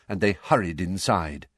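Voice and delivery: ordinary delivery, nothing marked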